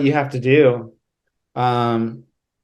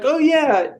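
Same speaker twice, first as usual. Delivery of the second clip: mildly hammed-up, higher-pitched band pitch; imitated merch pitch; 9 semitones higher than usual. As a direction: lightly mimic someone talking up their shirts. Mimics band pitching shirts.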